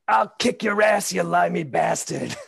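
high, loud New York Italian yell; reliving a coach's New York Italian outburst; New York Italian shout. Retold or imitated. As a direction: bark it like a furious New York Italian Little League coach. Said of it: "really strong New York Italian accent".

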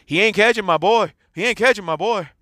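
high, loud, taunting boast; mock gloating dad. Other dad bragging to the coach, high loud mock taunt. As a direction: imitate the smug other dad rubbing it in.

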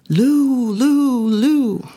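high teasing sing-song calls; bratty children calling a name; kids calling out. Retold or imitated. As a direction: call him like mischievous kids.

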